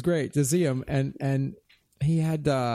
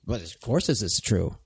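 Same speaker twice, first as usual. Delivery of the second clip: matter-of-fact; 9 semitones lower than usual. Real, not acted. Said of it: "I love the way you said that".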